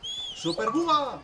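loud, high, drawn-out cry; triumphant call. Real, not acted. Player summons his super car in the game, loud triumphant call.

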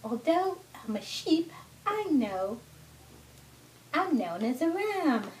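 put-on sing-song rhyme for a toddler; lightly voiced storybook ram; children's story reading. Mother reads the ram's verse to her son, children's story reading.

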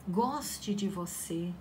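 soft, slow whisper. Real, not acted. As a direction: breathe it gently to the viewer. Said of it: "whispered affirmation".

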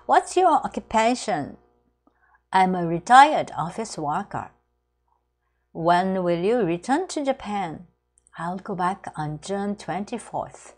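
slow, careful English read for learners; slow model dialogue. Shown as a demonstration. Teacher modelling a customs dialogue, slow and careful. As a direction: read each line slowly as a model.

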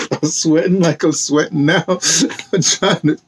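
laughing through the line about sweating. Real, not acted. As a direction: chuckle it out, amused at himself.

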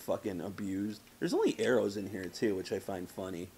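ordinary talk, nothing marked

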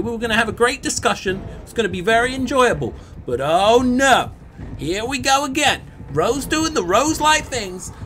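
mock whiny complaint. Mock complaining about teammate.

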